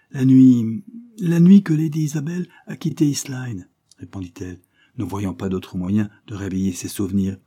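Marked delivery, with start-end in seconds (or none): 0.1-3.7 louder and higher, pressing; urgent outburst. Acted. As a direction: force the memory out. Barbara blurts out the key night.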